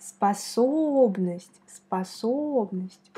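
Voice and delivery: Способность said slowly, weight on the second syllable; stress on the second syllable. Shown as a demonstration. Teacher showing learners where Способность is stressed, slow and deliberate. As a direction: lean on the middle O of Способность and stretch it. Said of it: "On met l'accent ici".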